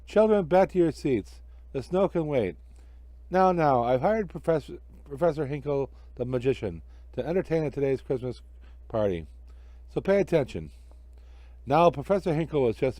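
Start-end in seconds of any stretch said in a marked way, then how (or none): 0.1-10.7 put-on a teacher settling the children down; schoolteacher voice. Teacher addresses the class.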